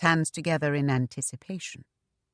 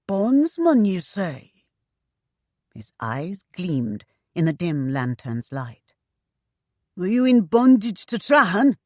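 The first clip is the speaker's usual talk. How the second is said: higher, louder, eager rough voice; fat eunuch tavern boss; 3 semitones higher, 4 dB louder than usual. Acted. Mother quizzes the newcomer, pitched up and eager. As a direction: lean in, pitched up and keen.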